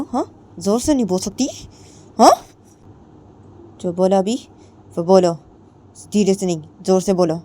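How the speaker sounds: high, loud taunting demands; mocking bully. A narrator's reading. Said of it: "जिया बोलती है". (ऊँची, तेज़ आवाज़ में ताना मारती)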